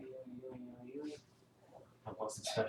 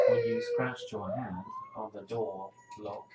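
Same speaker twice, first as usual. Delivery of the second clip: high, loud pretend sob; mock crying; 4 dB louder than usual. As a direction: fake tears to comfort. Mock sympathy over hurt hand.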